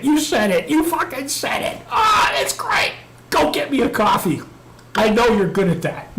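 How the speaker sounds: gleeful mock retelling. Coworker cheering over beers, high and gleeful. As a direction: crow it back in a giddy high voice. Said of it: "clapped me on the back saying".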